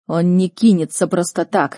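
moderately forceful bark; restrained snapped protest. Acted. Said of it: "гаркнул я".

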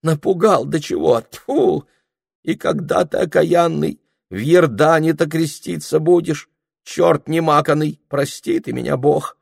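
high, loud, grumbling scold; an indignant cook's tirade. Acted. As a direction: scold the intruder crossly. Cook scolding a suitor.

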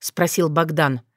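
ordinary delivery, nothing marked

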